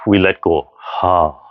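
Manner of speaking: long open ha as you let go; breathy ha exhale. Shown as a demonstration. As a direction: sigh the breath out on ha. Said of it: "use the Ha sound".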